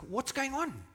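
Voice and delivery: high-pitched excited question. Acted. Blind beggar asking the crowd around him, excited. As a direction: ask it high, eager to know. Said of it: "He was excited. He was like".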